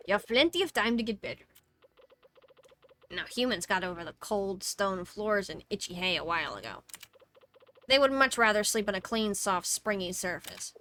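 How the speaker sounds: lightly put-on quest-giver voice; chatty character with emphatic openings; game character voice. Game character explaining what humans sleep on, lightly hammed-up voice.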